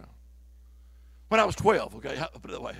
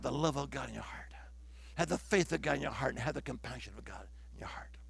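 soft, low, near-whispered preaching; hushed exhortation; 6 semitones lower, 12 dB quieter than usual. Real, not acted. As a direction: drop right down, soft and low.

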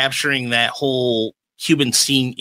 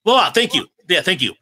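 higher, animated relief at the answer; excited recognition; 5 semitones higher than usual. Real, not acted. Host thanks the guest for the forgotten title, excited recognition. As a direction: seize gratefully on the missing title.

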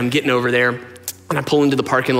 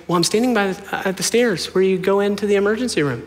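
mom explaining; 7 semitones higher than usual. Retold or imitated. Mom explaining where she stands.

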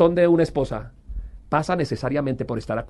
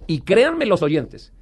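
slow earnest appeal; 4 semitones higher, slower than usual. Real, not acted. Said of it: "appeal to listeners".

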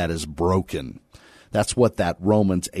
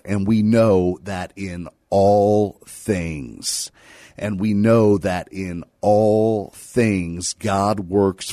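slow, deliberate verse recitation; scripture reading; slower than usual. Acted. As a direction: stretch the opening words of the verse. Recites a well-known verse.

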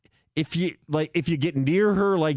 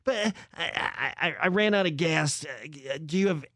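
frantic embarrassed stranger. Retold or imitated. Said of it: "this is exactly how she was talking".

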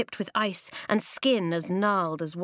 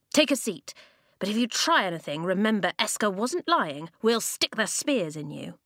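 put-on wary boy warning; 2 semitones higher than usual. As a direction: grant a seat but keep the threat. Boy warns old man.

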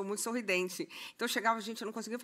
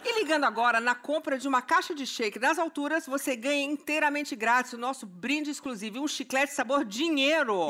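infomercial; 4 semitones higher, 3 dB louder than usual. Acted. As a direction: announce the free gift like an ad. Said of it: "cheirinho de merchan". (oferta de merchan animada)

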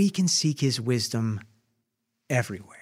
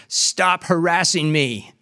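mild mock shout, slow and firm; a man yelling down the phone at the rabbi, toned down; retold shout; 5 semitones higher, 4 dB louder, slower than usual. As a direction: push him away, not at full force. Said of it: "He shouted into the receiver".

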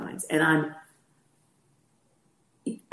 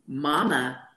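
much higher, eager doting mother; doting mom; 5 semitones higher, 4 dB louder than usual. Retold or imitated. Mother answering her little son's NBA dream, doting and high. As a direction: promise the world to a little boy.

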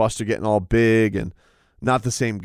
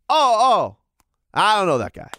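higher, mock-innocent denial; a lightly pitched-up dismissive shrug; Dana playing dumb; 7 semitones higher than usual. Podcaster imitates Dana White brushing off the reporter, mildly higher. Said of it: "Dana just kept doing this".

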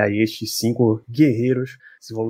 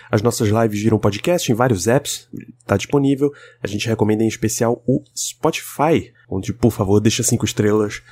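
hoarse voice. Real, not acted. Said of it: "a minha voz não tá muito boa".

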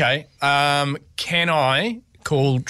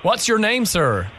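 put-on American accent; slower than usual. Prank caller asks the clerk's name, American accent. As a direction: fake American phone voice. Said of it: "talk to them in your American accent".

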